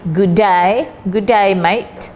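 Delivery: Australian "good day, mate" with a light imitating drawl; mock Aussie greeting; Australian accent. Shown as a demonstration. Teacher demoing the Australian accent to Malaysian students. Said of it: "They use Australian English".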